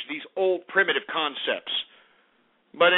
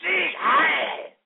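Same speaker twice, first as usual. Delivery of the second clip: much higher, slow, hammed-up ranting shout in a foreign accent; mock racist rant; 7 semitones higher, slower than usual. Host mocking chat-room white supremacists with a high, hammed-up shout. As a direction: caricature an outraged neo-Nazi, yelling. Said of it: "They're like".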